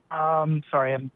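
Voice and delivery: catching breath after heat; slightly winded, pausing to breathe. Real, not acted. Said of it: "sorry, I'm catching my breath".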